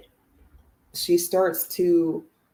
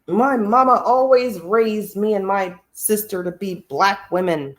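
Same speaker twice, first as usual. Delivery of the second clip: mocking Kamala; 2 semitones higher than usual. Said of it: "changing her accent".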